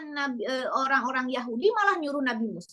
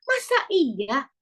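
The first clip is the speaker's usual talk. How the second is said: offended scoffing. Retold or imitated. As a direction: protest as if teased.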